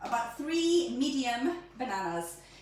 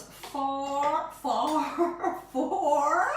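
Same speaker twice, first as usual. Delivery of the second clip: laughing drawl; 3 semitones higher, 4 dB louder, much slower than usual. Real, not acted. Drawn out with laugh.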